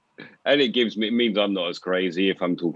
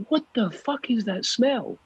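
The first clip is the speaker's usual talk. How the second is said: higher, slow mock voice for the dog; slow squeaky dog-directed voice; mock high talk to the dog; 13 semitones higher, 3 dB quieter, slower than usual. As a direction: put on a silly dog-talk voice. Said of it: "I was like".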